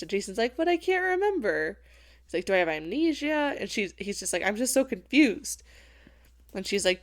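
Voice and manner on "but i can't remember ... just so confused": much higher, helpless little protest; high-pitched hammed-up bewilderment; mock confusion. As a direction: imitate a lost, baffled young man. Acting out confused amnesiac Jason.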